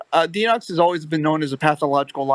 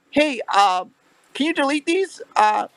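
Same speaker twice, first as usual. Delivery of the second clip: impersonating Denox; 9 semitones higher than usual. Retold or imitated. Acting out Denox's fake message.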